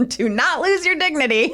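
laughing through the words. Real, not acted. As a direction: crack up mid-sentence. Laughing at the absurd advice.

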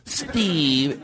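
long whispered, airy name; fancy name-saying. Shown as a demonstration. Host flattering the director, fancy whisper. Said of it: "said his name as fancy as we could".

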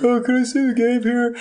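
lightly acted lost fan; pleading quote in a put-on voice; asking politely. Retold asking around town.

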